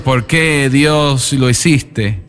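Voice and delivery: voz algo más alta, imitando un grito de dolor sin llanto real; lamento de padre en duelo. Retold or imitated. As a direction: reclama a Dios como el padre que perdió a su hijo, con dolor contenido. Padre en duelo grita a Dios. (el predicador imita a Jorge junto al ataúd, con dolor moderado)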